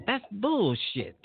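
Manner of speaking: slow, disgusted dismissal; scornful. Real, not acted. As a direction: drag it out in contempt. Scorning fake sales.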